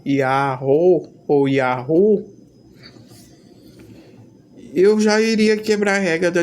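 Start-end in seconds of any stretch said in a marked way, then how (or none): 0.0-2.2 "Yahoo" sounded out slowly, first ending in o, then in u; pronunciation demonstration. Shown as a demonstration. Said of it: "pra pronunciar".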